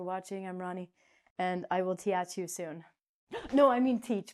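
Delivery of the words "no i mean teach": surprised. Real, not acted. Catching own slip.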